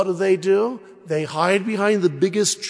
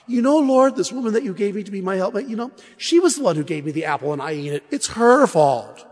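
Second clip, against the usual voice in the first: passing the buck; 3 semitones higher, faster than usual. Acted.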